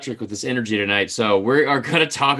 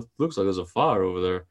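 put-on lower-pitched broadcaster with an obnoxious Yankee accent; mock Yankee accent; 6 semitones lower, 4 dB quieter than usual. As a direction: imitate a Yankee-accented TV commentator. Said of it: "obnoxious Yankee accent".

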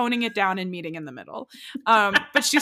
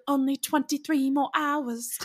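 attempted Irish accent; 5 semitones higher than usual. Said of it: "I can't do an Irish accent well".

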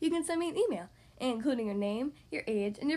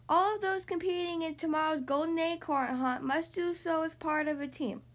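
reading out; 4 semitones higher than usual. A narrator's reading. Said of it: "Beaver read".

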